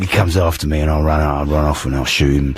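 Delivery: hoarse London hard-man voice; Ray Winstone impression. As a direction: play a tough geezer with a sore throat. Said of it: "I'm Ray Winston".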